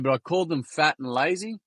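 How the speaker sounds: a hint of a small boy owning up; grade-three boy. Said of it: "This is a kid in grade three".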